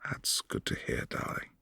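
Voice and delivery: soft, hushed and fond; tender whisper. Acted. Vampire whispers fondly to his darling, tender. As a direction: whisper it close and affectionate.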